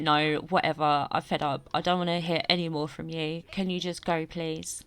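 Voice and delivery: mildly fed-up daughter, low and dropping off. Acted. Daughter telling her dad to just go, mildly fed up. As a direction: brush him off wearily, voice sinking on the plea.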